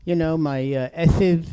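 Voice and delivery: lisping without false teeth. Real, not acted. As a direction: slur through toothless gums. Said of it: "I might be slurring my lid, my lisp".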